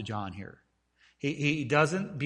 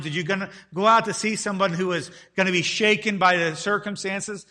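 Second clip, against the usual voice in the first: louder, higher, pressing questions; Jesus challenging the multitude, louder; 3 semitones higher, 5 dB louder than usual. Acted. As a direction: press the crowd hard. Jesus questions the crowd, preached.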